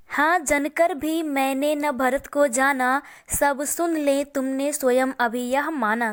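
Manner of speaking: slow, measured verse reading; poem recitation. Acted. Teacher reciting Kaikeyi's verse to students, measured recitation. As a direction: read the couplet line by line.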